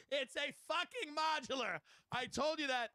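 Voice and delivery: high, drawn-out yell at modest volume; mock scream. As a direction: imitate an exasperated coworker screaming, stretching the words. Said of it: "He's screaming".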